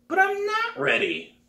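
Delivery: put-on a girl begging to be taken on; pleading girl.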